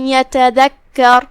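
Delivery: یتذکر read slowly, merged with a nasal ghunna; idgham demo. Shown as a demonstration. Teacher shows the merging of tanwin into یتذکر, slow. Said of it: "یا میں داخل کر کے غنہ کے ساتھ".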